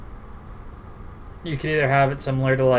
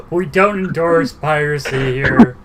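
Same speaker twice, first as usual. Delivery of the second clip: laughing; 4 semitones higher, 5 dB louder, slower than usual. Pretend. Mock disclaimer with laughter.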